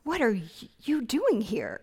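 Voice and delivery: a touch of surprise, voiced aloud; mild mock surprise. Preacher showing the wrong reading of God's question, mildly surprised. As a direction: ask it as if caught off guard, lightly acted. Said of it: "as if he's surprised".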